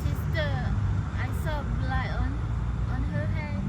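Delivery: put-on high, alarmed young voice; frightened girls. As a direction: realise the terrible truth. Girls discover horror.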